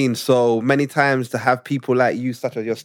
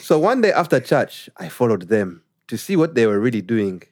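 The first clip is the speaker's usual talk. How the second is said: put-on Ugandan accent; 3 semitones higher than usual. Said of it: "when I read it in Ugandan accent".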